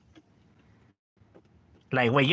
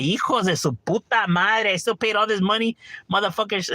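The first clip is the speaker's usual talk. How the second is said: retold outburst; 5 semitones higher than usual. A dad cheated by the toy store, cursing in outrage.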